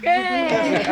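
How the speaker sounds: loud high cheer. Acted. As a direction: burst out in delight. Children cheer the inspector's praise.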